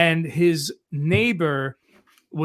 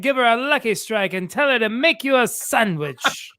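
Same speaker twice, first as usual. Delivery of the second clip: 1920s guy voice; 3 semitones higher than usual. Pretend. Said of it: "the nineteen twenties guy".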